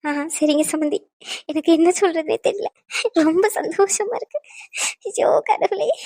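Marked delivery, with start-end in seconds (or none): 1.5-5.9 high, tearful overjoyed voice; overcome, weeping with happiness; crying for joy. Acted. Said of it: "சந்தோஷமா இருக்குன்ட்டு அழுதுகிட்டு தான் இருக்கீங்க". (ஆனந்தத்தில் அழும் குரல்)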